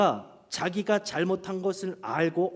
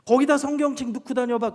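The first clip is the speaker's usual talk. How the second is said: put-on higher, louder nagging at the girls; loud scolding; 9 semitones higher, 7 dB louder than usual. Pastor nagging youth girls about makeup bags, loud and high. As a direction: scold them like a big brother. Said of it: "제가 덧붙였던 말이".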